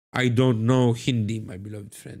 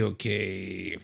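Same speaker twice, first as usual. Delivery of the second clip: quieter okay; 5 semitones lower, 8 dB quieter than usual. Real, not acted. Settles after a long pause.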